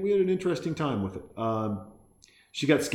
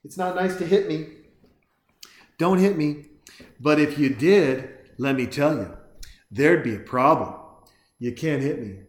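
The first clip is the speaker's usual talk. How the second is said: put-on bratty kid; 3 semitones higher, 3 dB louder than usual.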